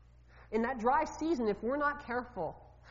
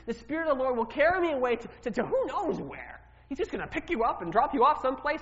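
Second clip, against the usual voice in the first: fearful; 2 semitones higher, 5 dB louder than usual. Acted. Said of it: "Can you hear the fear in his voice?".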